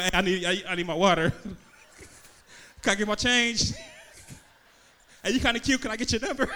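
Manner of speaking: loud, hurried orders shouted from a moving car; mock yelling through window. Driver shouts orders at the drive-thru as he rolls past, loud and hurried. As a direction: holler at the cashier while the car keeps rolling.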